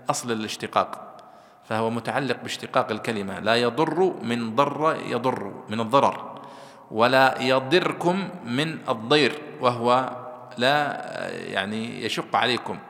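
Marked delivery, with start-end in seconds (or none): 3.4-5.5 slow "ضر يضر" with a held shadda on ر; doubled r. Shown as a demonstration. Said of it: "بالتشديد". 6.9-9.4 slow "يضركم" as yadirkum, with a single ر; lightened r. Shown as a demonstration. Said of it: "وفي قراءة أخرى بالتخفيف".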